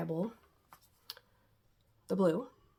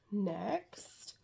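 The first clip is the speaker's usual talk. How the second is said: whisper; 5 dB quieter than usual. Real, not acted. Whispered aside to camera.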